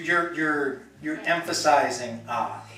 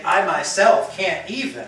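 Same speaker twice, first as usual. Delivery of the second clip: "I myself can't even" posh and laughing, louder; mock fancy; 3 semitones higher, 6 dB louder than usual. Shown as a demonstration. Teacher joking about a fancy phrasing, mock grand with a laugh. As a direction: play it grand and amused. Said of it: "It would be very fancy".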